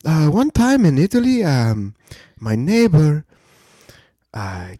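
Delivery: put-on high, drawn-out old grandfather voice; storytelling grandfather. Grandfather breaking the silence at the table, storytelling grandfather voice. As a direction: play the grandfather with long, slow pauses. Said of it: "My grandfather used to tell us some crazy shit".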